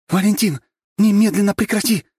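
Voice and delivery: loud sharp order; commanding. A narrator's reading. Lera stopping Valentin's fight, loud sharp command. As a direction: stop him in his tracks. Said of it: "Лера схватила".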